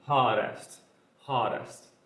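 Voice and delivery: "Hottest" with the double T as a quick tapped R sound; native-style flapped T. Shown as a demonstration. Teacher showing how natives say it, "Hottest" with R-like T. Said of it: "eu posso pronunciar com um R".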